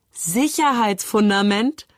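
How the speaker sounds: langsam, lachend und ungläubig nachgefragt. Acted. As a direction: das Wort höhnisch lachend wiederholen. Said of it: "lachte Moritz". (Moritz lacht ungläubig über das Wort der Schwester)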